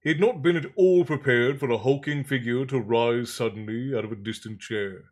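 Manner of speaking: measured audiobook-style reading; story narration. A narrator's reading. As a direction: read the story aloud with deliberate phrasing. Reads novel aloud.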